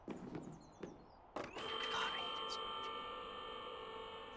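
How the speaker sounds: drawn-out whine. Real, not acted. Venting over daylight savings.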